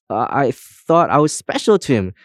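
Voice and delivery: high, halting mock sob; narrated tearful whimper from a hurt comb; sobbing. A narrator's reading. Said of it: "sobbed Comb".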